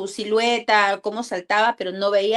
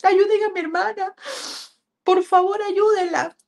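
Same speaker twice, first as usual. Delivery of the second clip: high-pitched crying plea for help; retold desperate plea, voice pitched way up; tearful pleading; 9 semitones higher than usual. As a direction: imitate a boy begging through tears. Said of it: "Comenzó a llorar y decía".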